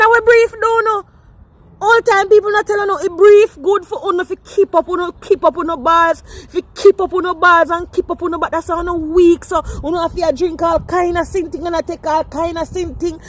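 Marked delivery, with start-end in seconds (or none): none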